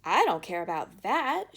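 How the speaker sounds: loud, petulant outburst; shout. Acted. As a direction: fling it back at her mother. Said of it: "shouted Veruca".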